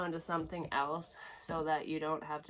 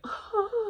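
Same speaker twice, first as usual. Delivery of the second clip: a quick bright laugh, much higher and louder; short high laugh; 7 dB louder than usual. Real, not acted. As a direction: burst out laughing at the idea. Laughs at ugly cry idea.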